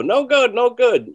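high, loud, curt repeated dismissal; mentor's "no good" imitated high and loud; imitating mentor's verdict. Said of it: "But he'd go".

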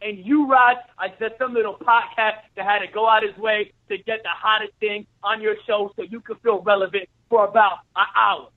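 trash-talking heel, lightly voiced; wrestling promo. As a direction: keep cutting the promo, taunting. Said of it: "cut a promo for one minute".

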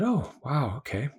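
high, caught-off-guard wow; surprised wow. Retold or imitated. Hearing the kind driver is Hindu, surprised and high. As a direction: let the surprise lift the voice up high.

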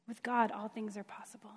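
soft reverent whisper; hushed whisper. Acted. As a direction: whisper it with awe. Quoting Jesus, hushed emphasis.

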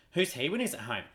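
Australian twang on Who's he when he's at home, stress on he's; Australian saying. Shown as a demonstration. Showing an Australian saying, in a light Aussie accent. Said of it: "all about how you say it".

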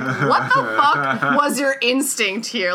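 slow, laughing mock outrage at a weird choice; laughing disbelief. Co-host mocking a strange documentary, slow laughing disbelief. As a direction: drag it out through a laugh, baffled. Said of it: "And you're like".

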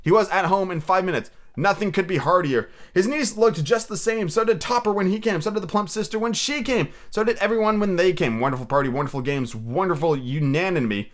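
animated storybook reading, lifted above chat; story narration. Acted. Reader tells of Scrooge's shaky morning shave, animated narration. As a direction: read it out with lively storyteller phrasing.

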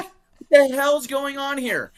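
high, slow, put-on baffled voice; imitating bewildered self. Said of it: "And I was like".

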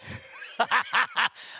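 high staccato mimicked cry; imitated movie sound. Preacher imitating what the baddies hear down the street, mimicked. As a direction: mimic a Western's sound cue, high and punchy. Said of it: "you hear this".

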